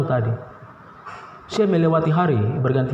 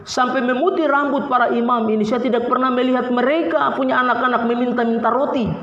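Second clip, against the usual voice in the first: lightly raised, proclaiming voice of King David; preacher quoting the psalmist with a hint of solemn proclamation; King David's words; 6 semitones higher than usual. Preacher to congregation, quoting King David, lightly proclaimed. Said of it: "Raja Daud bilang begini".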